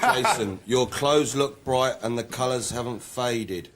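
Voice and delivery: slow monotone reading. Acted. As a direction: deliver it dead flat and slow. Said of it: "says in a somewhat monotone voice".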